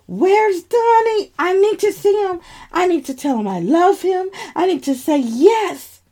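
high, breaking plea on the verge of tears; tearful pleading. Acted. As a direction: beg through tears to see him. Injured narrator begging for boyfriend.

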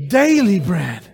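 daily said firmly, congregation joining; stress on daily. Shown as a demonstration. Preacher leading the room, daily stressed. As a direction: lean on daily. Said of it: "say it with me".

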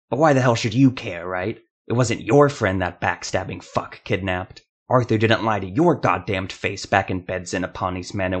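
bitter, loud accusing rant; angry outburst. Acted. Jeremiah rages at Ethramel for not caring, shouting in anger. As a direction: lash out at the calm one.

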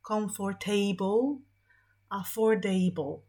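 "comfortable" and "affordable" with a full "ejbl" ending, slowly; wrong able ending. Shown as a demonstration. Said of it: "A powinniśmy wymówić te końcówki jako able". (błędnie: pełne "ejbl" w "comfortable")

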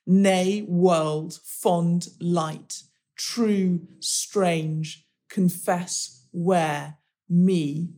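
each last word set apart, slowly; slow word list. Shown as a demonstration. Reading the last words aloud for the listener, each set apart slowly. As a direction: read out the line-end words one by one, slowly. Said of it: "shall I read out those last, last words".

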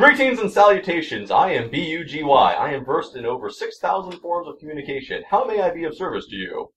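fussy protocol droid. Acted.

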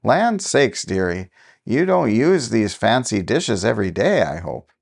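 a nosy neighbour exclaims over dishes; exclaiming. Acted.

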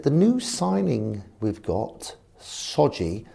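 slow, high posh chairman; drawn out in a light posh voice. Retold or imitated. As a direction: chairman bringing up the new signing, slow and posh. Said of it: "He's very posh".

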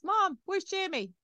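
put-on high, slow worried child's cry of "Mom"; panicky child. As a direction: voice the boy on the verge of tears, stretched out high. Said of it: "He almost started crying".

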